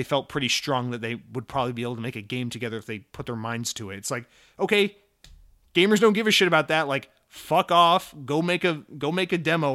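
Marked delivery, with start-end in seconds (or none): 4.6-9.7 exasperated rant. Real, not acted. Ranting at studio announcements.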